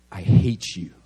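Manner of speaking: imitated low, loud growl of a kid; angry little boy. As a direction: spit it out like a furious child. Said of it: "a little boy came up".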